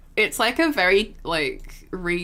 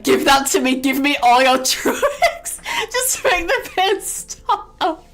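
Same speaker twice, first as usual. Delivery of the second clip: louder, slow, begging through laughter; laughing plea; 6 semitones higher, 6 dB louder than usual. Retold or imitated. Her begging the nurses for pain pills, laughing desperately. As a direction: mock-desperate demand for the drugs.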